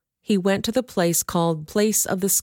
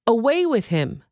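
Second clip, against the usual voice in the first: higher, falling crowd yell; a first, lighter yell of rejection; 6 semitones higher than usual. Acted. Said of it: "they yelled".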